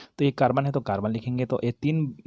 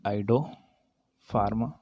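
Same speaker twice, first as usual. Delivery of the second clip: drawn-out name; much slower than usual. Shown as a demonstration. Teacher spelling out the name.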